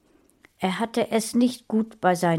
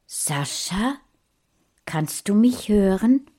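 whisper; 3 semitones higher than usual. Acted. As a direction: whisper it so no one else hears. Sneaking into boy's room at night.

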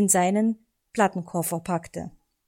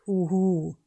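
Eulenruf. A narrator's reading. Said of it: "berichtete Onkel Uhu".

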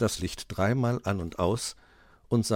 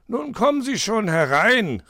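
higher, louder call through the door; 14 semitones higher, 8 dB louder than usual. Acted. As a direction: call the visitor in, a little impatient. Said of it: "rief Herr Fuchs".

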